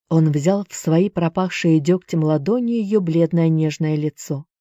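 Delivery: ordinary delivery, nothing marked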